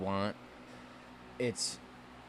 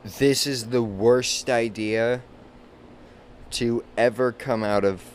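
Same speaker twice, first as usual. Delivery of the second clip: loud outraged rant. Retold or imitated. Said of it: "I was like".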